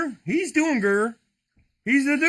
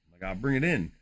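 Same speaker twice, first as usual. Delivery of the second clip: silky baritone; 10 semitones lower, 5 dB quieter than usual. Shown as a demonstration. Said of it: "that silky smooth baritone".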